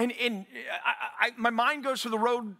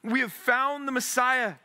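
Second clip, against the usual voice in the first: eager; 3 semitones higher, slower than usual. Shown as a demonstration. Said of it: "without much passion or emotion".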